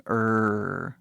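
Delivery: "R" drawn out as "errr"; vowel-like English R. Shown as a demonstration. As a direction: hold a thick "R" like a vowel. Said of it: "consoante que é meio vogal".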